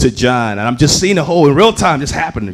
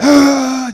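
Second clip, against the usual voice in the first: high mock scream; imitated yell; 9 semitones higher than usual. Angry singer confronting the heckler's boyfriend, mock screaming. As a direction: act out a yell in someone's face. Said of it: "he's yelling in John's face".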